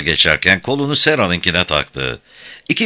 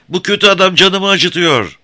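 put-on high-pitched, loud childlike wail; screaming child; 13 semitones higher, 5 dB louder than usual. A narrator's reading. Little George yelling to grandfather that he is hurt. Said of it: "diye bağırdı George avazı çıktığı kadar".

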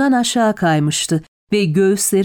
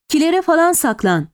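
raised-pitch urgent command; desperate shout; 7 semitones higher than usual. A narrator's reading. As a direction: call out a helpless warning. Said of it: "diye bağırdım çaresiz".

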